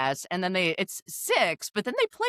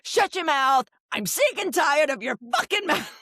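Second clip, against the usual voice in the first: mock furious yell; 9 semitones higher than usual. Imitating Rula yelling at Jolene, mock fury. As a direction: bark it like a hammed-up reality star fight. Imitating Rula's screaming fight.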